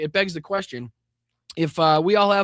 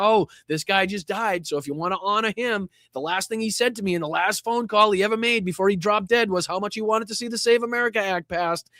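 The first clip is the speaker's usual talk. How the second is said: higher, greasy mock of a politician cashing in; a hint of an oily salesman, voiced higher; sleazy Trump mock; 5 semitones higher than usual. Mocking Trump using a death for political gain, in a higher greasy mock voice. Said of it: "that scummy fucking Weasley, greasy way".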